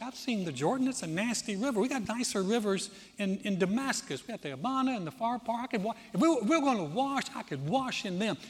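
mock indignant rant, building; frustrated complaint. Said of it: "you could see he is building up this frustration".

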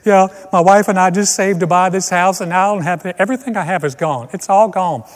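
hammed-up distraught homeowner; homeowner at the scene. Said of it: "here's this guy standing behind his house".

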